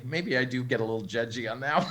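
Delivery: chuckling through an admission; laughing. Real, not acted. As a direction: laugh while owning up. Admitting own judginess, laughing.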